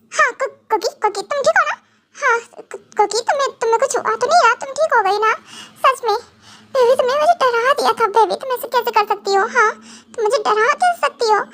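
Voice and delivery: relieved but still upset, pleading; tearful worry. Acted. Husband to Kokhi after her scare, tearful worry. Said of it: "रो रहे हो क्या".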